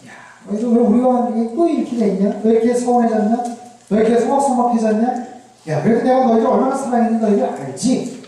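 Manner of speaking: mildly wounded, pressing questions in quick succession; hurt confrontation. Acted. God to Israel in a last showdown, mildly hurt and confronting. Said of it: "마지막 담판 하시듯이".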